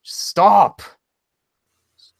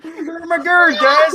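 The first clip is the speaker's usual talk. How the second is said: put-on Irish accent; 11 semitones higher, slower than usual. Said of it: "This is my Irish accent impression".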